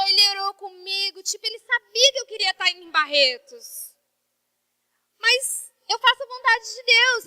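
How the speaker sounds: normal talking voice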